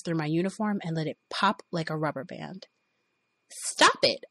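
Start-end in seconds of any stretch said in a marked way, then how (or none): 3.5-4.2 high sharp yell. Retold or imitated. Woman yelling at groping boss, high yell. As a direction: shout at him to stop. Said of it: "I yelled".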